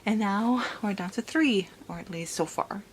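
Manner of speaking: soft but eager, held-down thrill; hushed excitement. Acted. Vlogger quietly gushing about the reunion, hushed. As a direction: contain the excitement to a hush.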